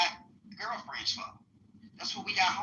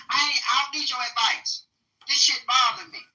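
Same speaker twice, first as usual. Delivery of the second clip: mock anger; 4 semitones higher, 4 dB louder than usual. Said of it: "You mad".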